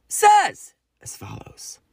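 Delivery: drawn-out announcement. Real, not acted. Announcing brother's message.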